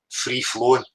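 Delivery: normal talking voice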